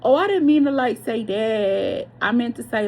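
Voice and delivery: mock backpedaling excuse. Mocking the reader who takes her words back, in a high, hammed-up voice. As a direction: ham up the "I didn't mean to" whine, stretching "like, say that". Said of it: "said you do that sometimes".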